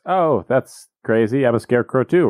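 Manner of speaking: lightly mocking fake amazement; sarcastic. Dorothy answering the scarecrow, mildly sarcastic. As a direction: play along with a touch of sarcasm. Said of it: "I'm being sarcastic".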